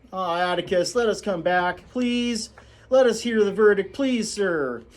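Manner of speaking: put-on high, whining boy's plea; pleading Jem. Jem pleading with his father to hear the verdict. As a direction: beg to stay, rising.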